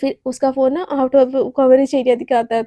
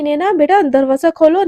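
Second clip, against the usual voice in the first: calling through door; 7 dB louder than usual. Acted. Mother calling daughter through door.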